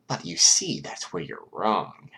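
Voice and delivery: slow, wicked gloating. Acted. Mastermind corrects the doubters with a wicked glint. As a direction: savour telling them they're wrong. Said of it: "a wicked glint".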